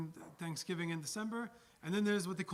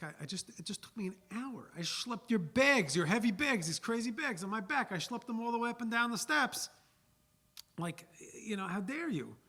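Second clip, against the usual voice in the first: rising outraged complaint, louder and higher; an exhausted porter demanding more than a quarter; indignant porter; 6 semitones higher, 4 dB louder than usual. Acted. Overworked porter protesting his tiny tip, indignant.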